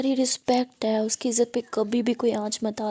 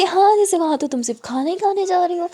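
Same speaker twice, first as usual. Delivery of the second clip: sarcastic tease; 6 semitones higher, 5 dB louder than usual. Acted. Mother teasing sarcastically.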